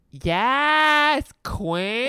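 high, loud sassy cheer; sassy yes queen. Retold or imitated. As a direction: fling it out like a diva. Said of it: "I was like".

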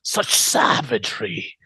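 dramatic gushing, slowing at the end; freaking out in awe. Acted. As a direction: gush over it in hammed-up awe. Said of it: "he freaks out".

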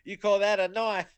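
high-pitched mock Australian accent; Crocodile Dundee. Co-host quoting a film to tease, mock Australian accent. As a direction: put on a movie-quote Aussie accent. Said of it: "by the name of Crocodile Dundee".

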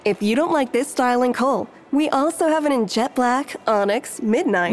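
a light, scripted shop-clerk chirp; robotic sales clerk. Pretend. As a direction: recite the pitch like a looping game character. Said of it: "She's like a robot".

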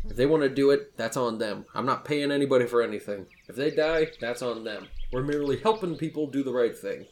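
firm, mildly barked lines with punched openings; barked rebuttal. Acted. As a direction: lay down the law, a touch forceful. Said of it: "barks out in front of him".

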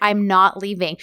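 calm demeanor. Retold or imitated. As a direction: stay calm and immovable, retelling it. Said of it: "like, calm demeanor".

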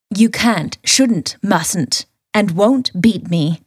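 lightly voiced sultry Ivy; a hint of a fighting game villainess. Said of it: "in my summer Valentine voice".

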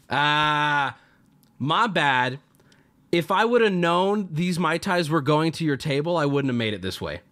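a hint of a smug cartoon villain; lightly voiced sly bartender, faking an apology. Bartender mocking the angry table, lightly hammed villain. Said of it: "it's like cartoon villain".

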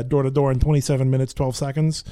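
trigger line in light Brooklyn accent. Shown as a demonstration. Quoting an old play line, Brooklyn accent. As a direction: recite it with a hint of Brooklyn. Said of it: "That was a line I used".

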